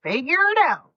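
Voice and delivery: curt announcement, a jump up on figure it out; deadpan notice of resignation from the body; the body telling her it quits estrogen; body as blunt boss. Retold or imitated. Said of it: "Your body is like".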